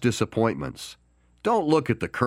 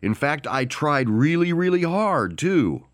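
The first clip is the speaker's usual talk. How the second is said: excuse-making; 3 semitones higher than usual. Retold or imitated. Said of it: "you can say".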